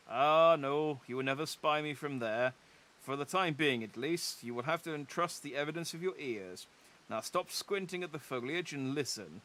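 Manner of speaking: a hint of a smug gloating rival; lightly voiced rival. Rival mocking the adventurer for arriving too late, mildly smug. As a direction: tease the latecomer lightly.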